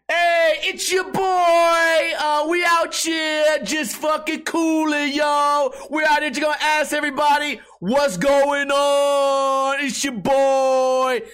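high, loud, slow hype-man voice; shouted mock hype intro; mock hype host. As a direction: ham up a street interviewer's intro. Imitating hip-hop intro host.

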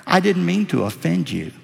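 mildly acted startled attendant. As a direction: apologize as if caught off guard. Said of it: "the attendant was startled".

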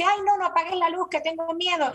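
put-on high, quick pleading child voice; scared child. Child begging parent not to turn off the light, high and quick. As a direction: whine it like a small child afraid of the dark. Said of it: "un niño te dice".

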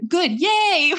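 tongue-in-cheek celebration; sarcastic yay. Retold or imitated. She mock-cheers after being told to cry, ironic.

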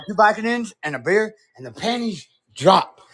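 character voice punching the last word; Tweeter. Acted. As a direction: replay the catchphrase in character. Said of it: "I can do Tweeter".

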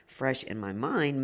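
hoarse gravelly voice; worn, gravelly voice. Real, not acted. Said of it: "maybe not fresh in this gravelly voice".

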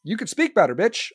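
ordinary talk

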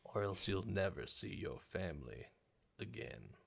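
eerie little whisper; centipede voice. Acted. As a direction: hiss it inside her head. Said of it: "a little centipedal voice in your head saying".

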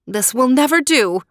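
a mean mother plotting aloud; a touch of a spiteful stepmother; scheming stepmother. Acted. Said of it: "the stepmother thought to herself".

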